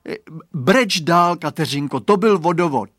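put-on a little boy urging his friend to keep crying; coaxing boy.

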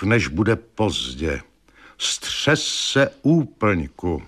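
very slow, measured doom; ominous letter. A narrator's reading. Wife's threatening letter read aloud, very slow. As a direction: read it like a dark prophecy.

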